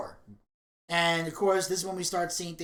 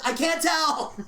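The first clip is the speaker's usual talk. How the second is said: British reply; 9 semitones higher, 4 dB louder, slower than usual. Retold or imitated. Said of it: "Hugh says".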